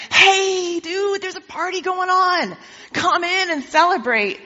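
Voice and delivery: breezy buddy inviting him to the party; casual servant. Acted. Servant voiced casually in story.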